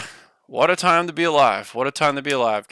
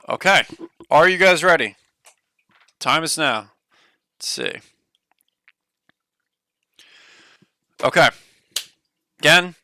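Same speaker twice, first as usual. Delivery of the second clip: hyped giveaway announcement; 2 semitones higher, 4 dB louder than usual. Real, not acted. Streamer announcing giveaway spin.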